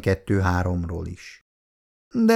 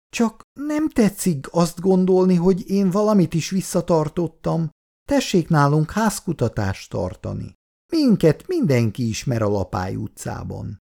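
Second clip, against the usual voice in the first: higher, agitated pleading on the verge of crying; near tears, agitated; 7 semitones higher than usual. Acted. Upset woman defending herself to the lieutenant, near tears. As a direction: protest as if the voice could choke with tears. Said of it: "a hangja is elcsuklott, a sírás kerülgette".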